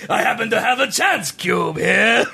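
slow, drawn-out Watto voice; lightly voiced Watto; Watto impression. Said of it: "literally Watto's lines".

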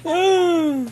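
high laughing. Real, not acted. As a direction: laugh through the words. Laughing at joke.

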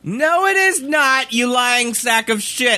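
high, indignant outburst; angry rant. Real, not acted. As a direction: call them out, fired up. Ranting at fit old people.

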